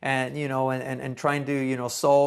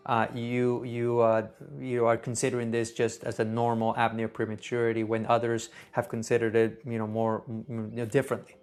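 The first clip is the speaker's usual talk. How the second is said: calm and gentle; 5 semitones lower than usual. Shown as a demonstration. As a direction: stay calm and gentle, never escalate. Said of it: "very gently say".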